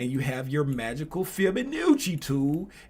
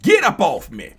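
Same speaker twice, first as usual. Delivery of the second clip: mock shout; 3 semitones higher, 11 dB louder than usual. Price voiced pushing off hot plate.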